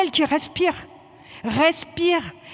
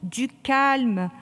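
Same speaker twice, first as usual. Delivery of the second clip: calming voice; 2 semitones lower than usual. Real, not acted. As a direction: talk the gasping recruit down gently. Instructor calms a choking recruit.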